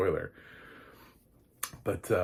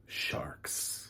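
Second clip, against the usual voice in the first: whisper; 7 dB quieter than usual. Pretend. Dramatic whisper of sharks.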